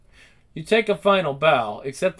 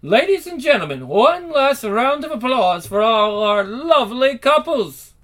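announcer voice; 6 semitones higher, 4 dB louder than usual. Acted. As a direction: boom it out like a ballroom host. Announcer calls out to ballroom crowd.

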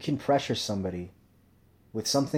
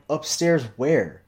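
incredulous question; 5 semitones higher, 6 dB louder, much slower than usual. Retold or imitated. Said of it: "And I'm like".

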